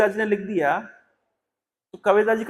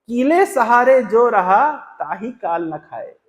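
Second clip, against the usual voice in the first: slow verse recital; slower than usual. Acted. Reciting the second line of couplet.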